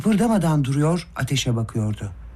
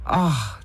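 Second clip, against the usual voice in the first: ordinary delivery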